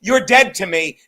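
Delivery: slow, firm re-enacted cut-off; cold dismissal. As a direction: pronounce it slowly and loudly, like a final verdict. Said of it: "I should just be like".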